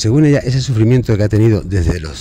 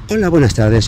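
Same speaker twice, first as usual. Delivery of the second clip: acento ensayado fingido; 3 semitones higher than usual. Retold or imitated. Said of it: "y practica acentos".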